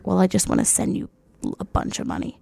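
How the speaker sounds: hushed, breath-only creep on the phone; creepy caller. Retold or imitated. Imitating the caller offering money, creepy hushed voice. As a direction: drop to a soft, creepy near-whisper. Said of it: "His voice is so disgusting".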